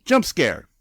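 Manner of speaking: high, punchy mock shout. Ghost of Wiggum reaching out to him, mock shout. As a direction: blurt it like a cartoon ghost's jump scare.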